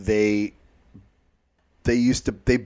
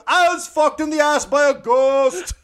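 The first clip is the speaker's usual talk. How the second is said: mock victim voice; 13 semitones higher than usual. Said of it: "go outside and go".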